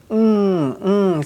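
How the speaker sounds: "mm" as a held ng from the throat; NG sound. Shown as a demonstration. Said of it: "something like N G sound".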